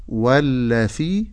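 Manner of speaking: "والذي" with th as in thin, wallathii; dhal as tha. Shown as a demonstration. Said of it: "بجعلها ثاء". ("والذي" بالثاء بدل الذال)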